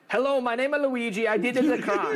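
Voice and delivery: high, hammed-up Italian guy reading his note; mock Luigi note voice. Mocking the note's confession in a high goofy voice. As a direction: play the killer announcing himself, high and goofy. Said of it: "the note itself effectively does say".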